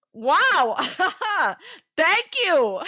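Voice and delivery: laughing clerk thanks. Retold or imitated. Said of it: "He was literally like".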